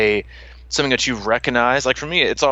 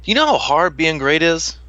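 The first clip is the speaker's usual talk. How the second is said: laughing exasperation; 8 semitones higher than usual. Real, not acted. Laughing exasperation about being great.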